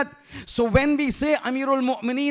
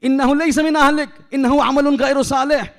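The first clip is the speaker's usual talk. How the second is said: louder, fast scripture-quoting rebuke; God's stern rebuke; 2 semitones higher, 5 dB louder, much faster than usual. Acted. God rebuking Nuh, loud stern recitation. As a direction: scold Nuh with divine authority. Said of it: "He says".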